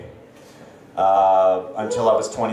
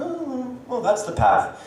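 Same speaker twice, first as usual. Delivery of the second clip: mock younger sister; 11 semitones higher, 3 dB quieter, slower than usual. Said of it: "she just comes along, like".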